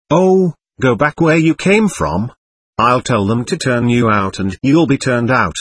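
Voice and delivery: plain reading voice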